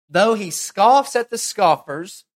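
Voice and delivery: slow, weighty, loud rise on scoffs; solemn proclaiming of the verse; emphatic scripture reading. Acted. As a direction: lean hard on scoffs and draw it out. Preacher reads key scripture verse.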